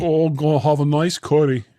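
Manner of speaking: a deliberately bad English accent, lightly done. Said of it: "a really bad English accent".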